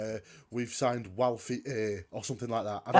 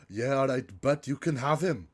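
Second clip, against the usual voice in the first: put-on Welsh accent. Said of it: "Is that your best Welsh accent?".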